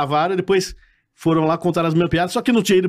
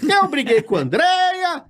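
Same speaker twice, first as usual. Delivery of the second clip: Carlos Alberto firing; 13 semitones higher than usual. Pretend. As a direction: pretend boss telling him not to come. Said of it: "igual a voz, o Carlos Alberto". (demissão fingida, bem aguda e lenta)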